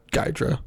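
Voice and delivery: Gydra said with a hard G, GYE-druh; hard G at the start of Gydra; mispronounced Gydra. Real, not acted. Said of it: "No, it's Yidra".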